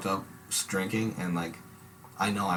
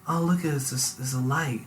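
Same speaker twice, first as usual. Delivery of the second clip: stoned wonder; 3 semitones higher than usual. Retold or imitated. Retelling high thoughts on bike.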